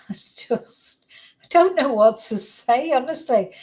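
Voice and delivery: laughing at a loss for words; helpless laugh. Real, not acted. Baffled by the case, laughing helplessly. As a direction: start on a real, breathy laugh. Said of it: "I'm laughing 'cause I just don't know".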